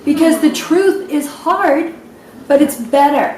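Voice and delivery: real emotion rising in the voice; tearful. Real, not acted. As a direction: choke up while telling the story. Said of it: "That's why I'm crying".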